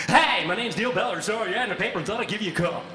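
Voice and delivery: high, loud, fast radio DJ patter; fake DJ voice. Calling about the job ad in a fake radio voice. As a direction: slick radio announcer pitching himself. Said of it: "launch into this D J voice".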